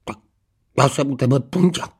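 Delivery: indignant, barking growl; growling dog-man. A narrator's reading. Husband confronting wife over the dog name, growling.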